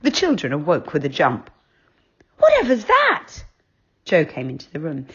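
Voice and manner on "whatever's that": high, startled cry; jolted awake by a screech; startled child. A narrator's reading.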